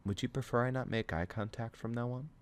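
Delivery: gentle. A narrator's reading. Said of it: "her next question is gentle and solitary".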